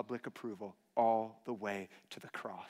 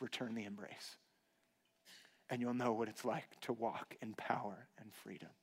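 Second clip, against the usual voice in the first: tender divine voice; 6 dB quieter than usual. Acted. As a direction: speak gently as a loving Father. God's command to return embrace.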